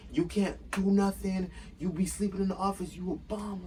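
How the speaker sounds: high-pitched, retold tirade; going in on him. Worker roasts the manager for sleeping on the job, going in. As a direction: lay into him, pitched well up. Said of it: "I was going in on him".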